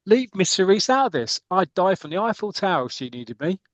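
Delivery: high-pitched acted declaration; mock gallant protest. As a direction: play a lovesick player leaping to her defence. Player acted defending a woman.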